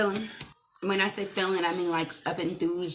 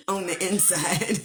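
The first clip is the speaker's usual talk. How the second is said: giggling. Real, not acted. Giggling about the memory.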